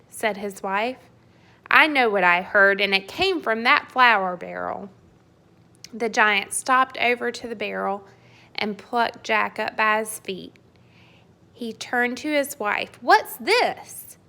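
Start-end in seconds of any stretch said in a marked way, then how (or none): 1.7-4.9 loud insistent giant; angry giant. Acted. 13.0-14.2 high, loud puzzled boom; giant's surprised question. Acted. Giant holds Jack up.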